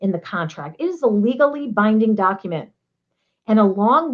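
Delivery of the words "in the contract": breezy request. Retold or imitated. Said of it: "just grab your salesperson and say".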